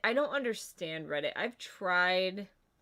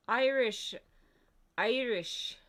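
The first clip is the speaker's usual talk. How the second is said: Irish accent; 4 semitones higher, slower than usual. Shown as a demonstration. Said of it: "it's pretty good".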